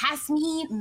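"Jasmine" opened with an h, ending "meen"; breathed h in place of J on "Jasmine"; Spanish pronunciation. Shown as a demonstration. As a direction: say "Jasmine" slowly as hahs-MEEN. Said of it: "it's Spanish pronunciation".

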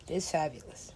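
hushed, marvelling whisper; awed whisper. Real, not acted. Gamer marvelling at a character's headdress, awed whisper.

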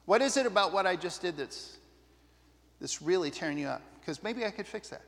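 soft, gentle de-escalating voice; quiet caring question; calm reassuring. Shown as a demonstration.

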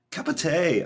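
high, loud mock Cockney "tay"; playful Cockney parody; imitated Cockney. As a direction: echo the bad Cockney line, amused and loud. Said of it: "she says in the Cockney accent".

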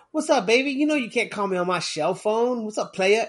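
hint of a rapper's phone greeting. Rapper answering a shell phone on the beach, lightly imitated. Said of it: "'Cause he's a rapper, of course. He picks up the phone, he's like".

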